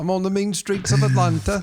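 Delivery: high mock Atlanta voice; comic Southern-accented boast. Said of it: "Same thing in the South".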